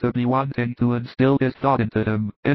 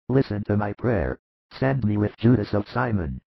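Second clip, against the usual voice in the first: lightly voiced older disciple, somewhat lower; Simon Zealot; 3 semitones lower than usual. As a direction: make a sober, understated plea in a low register. Simon Zealot pleads to go instead.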